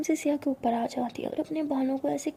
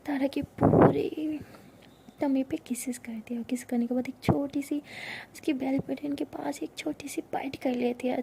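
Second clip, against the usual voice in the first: whispered narration. A narrator's reading. Narrator whispering a love story to listeners. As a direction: breathe the story close to the mic.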